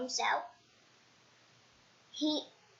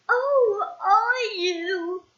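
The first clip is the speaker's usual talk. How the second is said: high, louder squeaky voice; gloomy squeaky reply; 6 semitones higher, 5 dB louder, much slower than usual. Acted. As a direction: answer like a glum little man. Mister Miserable answers gloomily.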